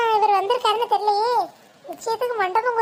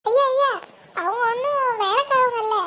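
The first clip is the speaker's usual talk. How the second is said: urgent plea; 2 semitones higher than usual. Acted. Pleading again to correct him.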